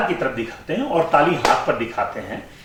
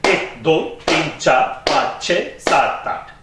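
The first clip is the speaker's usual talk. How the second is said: double-speed counting; 3 semitones lower, slower than usual. Shown as a demonstration. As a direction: count twice as fast to the beat. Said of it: "अब इसकी दुगनी गति क्या हो जाएगी?". (दुगनी गति में गिनती)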